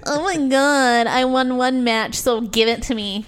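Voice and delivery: slow mock whine of a sore winner; whiny wrestler.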